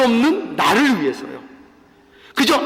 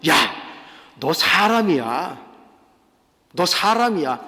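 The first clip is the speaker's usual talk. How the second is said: friend's reproof; 6 semitones lower than usual. Acted. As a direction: reprove a friend without raising your voice. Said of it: "책망을 좀 해야 되겠죠?".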